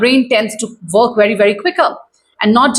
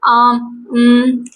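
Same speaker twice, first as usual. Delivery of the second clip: unprepared rambling answer. Acted. Coach acting out unready interviewee, rambling and stalling. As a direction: jump in, then trail into um and mm. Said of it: "just suddenly jump in and start speaking all kind of answers".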